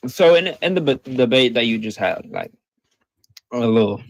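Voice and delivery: talking while eating chips; words round a mouthful of chips; crunching chips. Real, not acted. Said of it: "sorry, I'm, I'm eating chips".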